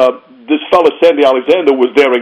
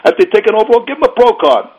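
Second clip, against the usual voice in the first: emphatic pleading; 10 semitones higher than usual. Retold or imitated. Pleading to officials.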